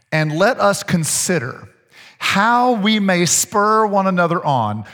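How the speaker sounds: slow, measured Bible reading; scripture reading. Real, not acted. Preacher reading Hebrews to the congregation, slow scripture reading. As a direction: read the verse out slowly and deliberately.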